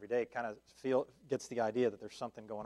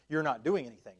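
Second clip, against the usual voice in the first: louder, punched rebuke in full preaching voice; emphatic rebuke; 3 semitones higher, 7 dB louder than usual. Acted. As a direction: hammer the word doing home. Same rebuke, now preached out.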